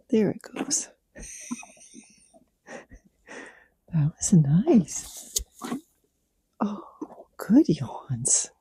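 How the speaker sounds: hushed, breathy praise for the horse; whispering to a horse mid-yawn; whispered praise. Real, not acted. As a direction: whisper so you don't break the moment.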